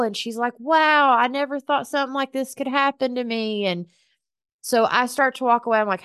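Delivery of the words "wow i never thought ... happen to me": high, awed burst on wow; stunned, grateful disbelief; amazed wonder. Retold or imitated. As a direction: gasp it out, overwhelmed with gratitude. Stranger overwhelmed by gift.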